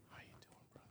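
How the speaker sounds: whispered "How you doing, brother?"; a hushed, unvoiced greeting. Shown as a demonstration. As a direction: breathe it, no voice. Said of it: "Same words".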